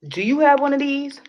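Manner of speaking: high, loud mock sales pitch; mock salesperson. Teasing her viewers, she plays a loud card salesman.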